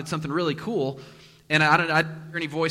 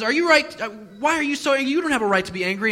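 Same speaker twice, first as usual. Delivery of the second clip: higher, louder rebuke; God's challenge; 8 semitones higher, 5 dB louder than usual. Retold or imitated. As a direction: press Jonah hard, voicing God. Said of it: "God says".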